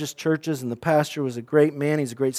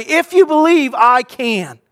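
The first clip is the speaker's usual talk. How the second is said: a high, louder mock line; wrong version; 7 semitones higher, 4 dB louder than usual. Shown as a demonstration. Preacher showing what Jesus never said, mock emphatic. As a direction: say it as the false claim. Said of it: "Jesus does not say".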